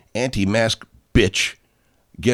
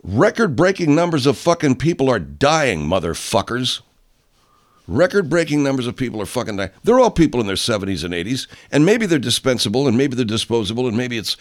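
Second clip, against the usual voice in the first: raised, angry rant; furious venting, louder; real anger; 4 semitones higher, 3 dB louder than usual. Real, not acted. Ranting at the viewers about deaths, angry and loud. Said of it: "why can't I get fucking angry".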